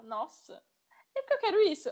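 a hint of a caught-out mother; lightly voiced mom.

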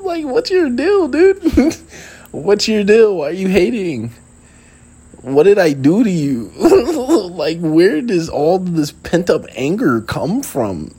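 high-pitched, incredulous questions broken by laughter; laughing protest. Retold or imitated. Asking a hating friend what you did, laughing protest. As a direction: crack up while demanding an explanation.

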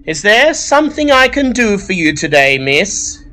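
high, bored librarian voice. Acted. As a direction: sigh it out like you've had enough. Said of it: "she says in a bored voice".

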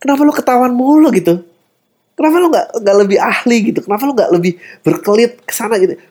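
high, exasperated complaint; mock angry. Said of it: "dan lu marah kayak". (omelan kesal pura-pura, nada tinggi)

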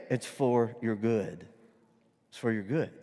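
calm, unhurried comfort; calm reassurance. Acted. Owner calmly answers the wailing dog.

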